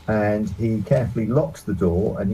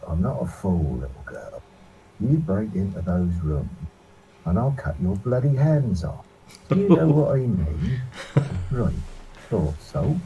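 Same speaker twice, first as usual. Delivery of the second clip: raspy voice. A narrator's reading. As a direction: growl it as a threat, rasping. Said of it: "in a raspy voice".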